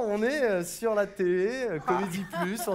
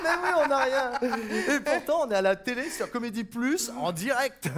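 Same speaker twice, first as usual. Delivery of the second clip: laughing through lines; 3 semitones higher than usual. Acted. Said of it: "tout ce qu'on fait est complètement spontané".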